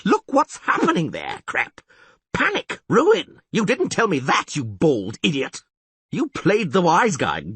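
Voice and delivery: high, loud frantic tirade; panicked angry rant. Acted. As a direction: berate the priest and beg the witcher. Mayor rants in panic.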